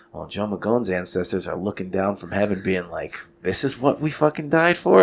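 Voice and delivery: murmured, hushed half-whisper, up close. Retelling what a grappling partner half-whispered during side control: imitating a half-whisper. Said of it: "he started whispering in my ear".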